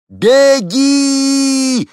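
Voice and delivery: very high, very loud scream; full scream. A narrator's reading. Henni screams to the woman from the helicopter, full scream. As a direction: shout with all your might. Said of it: "изо всех сил заорала Хенни".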